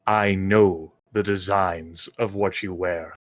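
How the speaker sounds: imposing dragon, slow and measured. Acted. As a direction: speak like a proud dragon queen. Dragon questions armored visitor.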